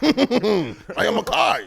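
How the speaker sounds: slow, high dramatic anime declaration; overacted anime dub. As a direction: announce it like an anime hero. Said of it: "That sounds like an anime character".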